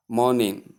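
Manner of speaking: "morning" without its ng sound, mornin; dropped g. Shown as a demonstration. Teacher showing learners what not to say, dropped g. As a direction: say morning as MOR-nin, ending on n.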